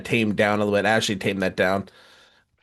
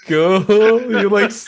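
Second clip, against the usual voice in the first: excited teasing; 8 semitones higher, 4 dB louder, slower than usual. Acted. Teasing game show build-up.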